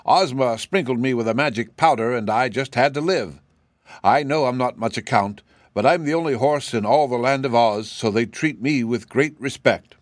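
a mild, slightly deflated wooden horse; sawhorse voice. Acted. Sawhorse explaining itself to the scornful cab horse, a touch deflated.

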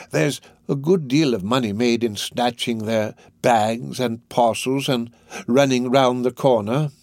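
put-on slow, coaxing old crook; lightly voiced Fagin. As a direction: lay out the scheme unhurriedly, lightly in character. Fagin suggests robbing old ladies.

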